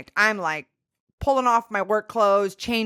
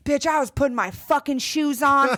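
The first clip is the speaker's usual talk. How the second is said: lightly acted indignant rant, pitched up; mildly hammed-up exasperation, higher voice; worked-up best friend; 4 semitones higher than usual. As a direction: imitate a fired-up friend, stretching the last words.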